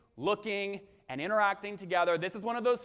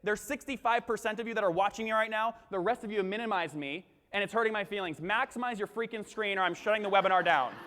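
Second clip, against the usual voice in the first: mock desperate plea, slightly raised voice; desperate host; 3 semitones higher than usual. Shown as a demonstration. Scolding webinar viewers who minimized him, mock desperation. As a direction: plead and threaten like a host losing his audience. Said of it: "if I'm really desperate on a webinar".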